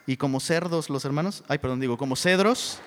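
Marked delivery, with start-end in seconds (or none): 1.5-2.8 laughing correction. Real, not acted. Laughing at own slip.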